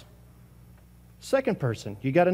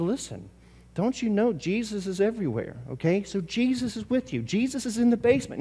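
reassuring mom; 5 semitones higher, 3 dB quieter than usual. Retold or imitated. Mom gently reassuring son.

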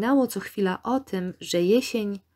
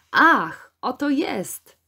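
loud opening "ah", then rising higher; joyful exclamation; 5 semitones higher, 4 dB louder, much slower than usual. A narrator's reading. Gilbert calls out on finding what he sought, joyful exclamation. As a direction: call out a happy discovery. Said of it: "zawołał w pewnej chwili z radością".

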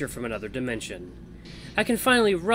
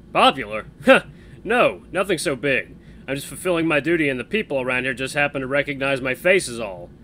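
louder, amused and humble; modest laughing guy; 7 dB louder than usual. Acted. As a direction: brush off the praise with a laugh.

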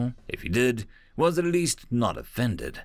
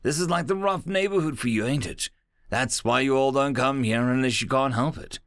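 amused and excited; 2 semitones higher than usual. Acted. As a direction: rib him with glee. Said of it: "he laughed uproariously".

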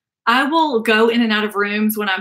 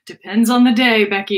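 laughing; 3 dB louder than usual. Real, not acted. Laughing while answering.

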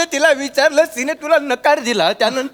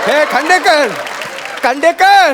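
insistent raised-voice call; urgent calling. Acted. Old man calls to his lifeless friend, urgent. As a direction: call out his name to rouse him.

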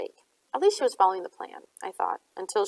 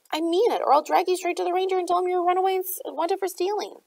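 threatening; 10 semitones higher than usual. A narrator's reading. Narrator threatens Gemma.

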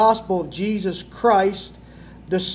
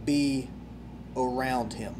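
much softer, lower, fading to a breath on sinful; John the Baptist confessing, barely audible; humble confession; 7 semitones lower, 15 dB quieter than usual. Acted. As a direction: confess it almost in a whisper, humbled. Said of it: "John the Baptist said".

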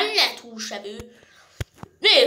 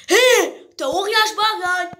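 calling out; 3 semitones higher, 5 dB louder than usual. Acted. Calling out to giant sheep.

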